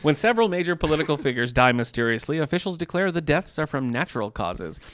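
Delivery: dramatic thriller blurb reading; book blurb read-out. Acted. Reads book blurb aloud.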